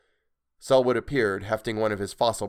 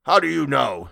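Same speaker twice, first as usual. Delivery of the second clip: raised, loud retort; higher, affronted demand; indignant; 5 semitones higher, 7 dB louder than usual. A narrator's reading. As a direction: fire back indignantly. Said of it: "Selwood was indignant".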